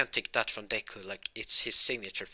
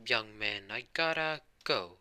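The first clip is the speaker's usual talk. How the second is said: raised, stretched-out hero farewell; All Might; slower than usual. Acted. Hero takes leave of the boy, grand. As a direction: sign off grandly, drawing out the end. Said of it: "All Might be like".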